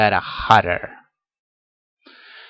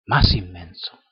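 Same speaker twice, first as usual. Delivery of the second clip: whispered; 5 semitones lower than usual. Shown as a demonstration. Teacher to students, whispering the comparative form. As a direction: breathe "más inmenso" out as a whisper.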